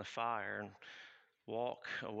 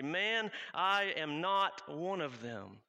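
slow, loud and higher, every word forced out; panicked denial; 5 semitones higher, 5 dB louder, much slower than usual. Acted. Peter, cornered by the crowd, panicked and loud. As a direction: deny it like your life depends on it. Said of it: "fight or flight mode. I'm freaking out".

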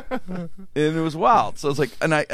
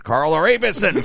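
a louder mock shout of the code, laughing through it; louder retold yell; 4 semitones higher, faster than usual. Guy repeating the code to the old lady, louder with laughter. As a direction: push it out louder the second time, half laughing. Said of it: "Scream it".

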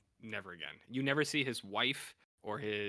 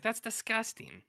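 high-pitched, appalled woman voice; Corinne voice; 11 semitones higher than usual. Retold or imitated. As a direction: pitch up into a scandalized wife. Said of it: "That's my Corinne voice".

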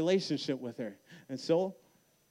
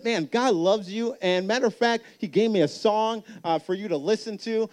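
much higher, louder bright caller voice; cheerful caller; 8 semitones higher, 9 dB louder than usual. Retold or imitated. The caller phoning on Christmas Day, high and louder. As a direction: play the friend calling, high and eager.

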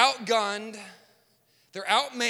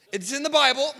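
loud and insistent; emphatic; 4 semitones higher, 5 dB louder, faster than usual. Acted. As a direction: punch it out with conviction. Insisting the story is real.

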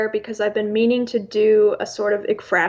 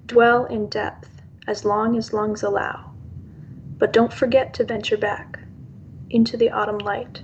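poem reading. Acted. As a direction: let each line land, unhurried. Reads her own poem.

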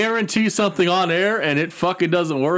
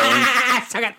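mock yell; 7 semitones higher, slower than usual. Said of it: "can you imagine him yelling to suck it".

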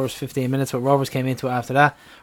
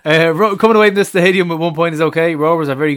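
put-on Swedish accent; 4 semitones higher, 6 dB louder than usual. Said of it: "Just read the words".

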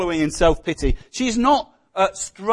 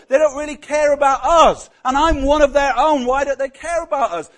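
a higher, louder whiny complaint; moaning Naomi; 4 semitones higher, 4 dB louder than usual. Retold or imitated. Naomi moaning on to Ruth about the uncaring town, higher and whiny. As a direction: grumble about the neglect, building to an indignant pitch. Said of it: "moaning on to Ruth".

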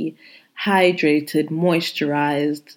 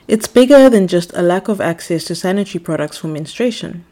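louder, formal cabin announcement; air hostess voice; 5 dB louder than usual. Acted. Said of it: "put on my air hostess voice".

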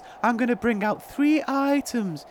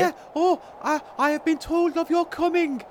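high little goblin voice; Toodle Pip; 5 semitones higher than usual. Acted. Goblin greeting travellers it was told about, high character voice. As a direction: pitch it up as a quaint mountain creature.

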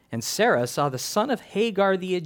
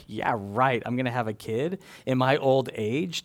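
lightly mocked disbelief, lower and understated; scoffing; 3 semitones lower than usual. Sarah doubting she'll have a child, lightly scoffing. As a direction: scoff it off as if it will never happen. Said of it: "her laughter went from scoffing and going".

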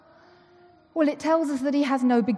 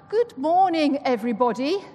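mild royal greeting; Queen accent; 3 semitones higher, 3 dB louder than usual. Shown as a demonstration. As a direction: greet them like the Queen would. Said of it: "I'll do my Queen accent now".

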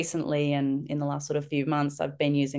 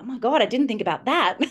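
higher, exclaimed realisation; mock dismay; 8 semitones higher than usual. Mum outsmarted by a kindy child, higher mock dismay. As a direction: react as if outwitted by a child. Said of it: "I was like".

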